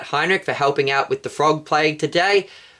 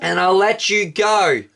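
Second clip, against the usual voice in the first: pleading Pharaoh; 5 semitones higher than usual. Acted. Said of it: "poor Pharaoh pleaded to Moses".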